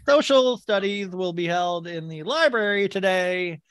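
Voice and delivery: slow, lightly hammed announcement read; a hint of PA-announcer voice; school announcer. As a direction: deliver it like morning school notices. Acts out his school announcements.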